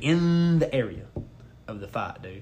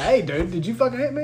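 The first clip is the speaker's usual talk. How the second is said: retold yell; 8 semitones higher than usual. Man walking up to the suspected attacker, retold yell. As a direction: act out confronting him, pitch up. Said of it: "So I start yelling at him".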